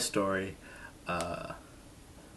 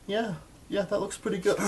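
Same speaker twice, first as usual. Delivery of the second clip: mock doctor; 13 semitones higher than usual. Imitating the doctor checking burns.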